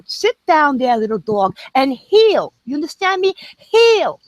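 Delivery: stern dog-trainer command, pitch rising. Pretend. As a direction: order it like scolding a dog. Scolding a troll like a dog.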